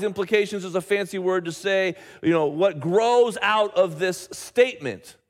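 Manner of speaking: ordinary talk, nothing marked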